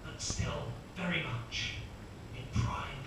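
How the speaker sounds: lightly voiced commentator, slow and measured; sports commentator. Main commentator introduces the stair racer, slow commentator voice. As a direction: draw out the phrases like a commentator. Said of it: "first commentator will kick in".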